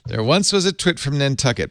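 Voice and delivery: limerick recital. Shown as a demonstration. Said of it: "Nantucket Limerick".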